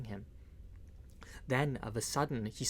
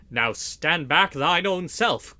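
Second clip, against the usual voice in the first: defiant retort; 3 semitones higher, 8 dB louder, slower than usual. A narrator's reading. Little John retorts to the soldier.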